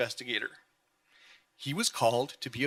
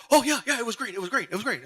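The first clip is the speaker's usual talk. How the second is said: imitating husband's breezy dodge; 8 semitones higher than usual. He'd go.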